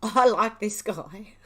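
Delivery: real laughter through drawn-out words; giggling. Real, not acted. Viewer delighted by the man's reaction, giggling. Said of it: "I was giggling my head off".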